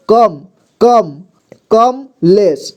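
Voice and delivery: "कमलेश" broken slowly into कम and लेश; syllable demonstration. Shown as a demonstration. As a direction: sound out "कम" with a full क and a light म, no vowel after म. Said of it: "म को थोड़ा धीमा किया जा रहा है".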